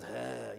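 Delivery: imitated scowling huff; soft, low mock huff of irritation; disapproving huff. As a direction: huff like an annoyed churchgoer. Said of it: "somebody goes".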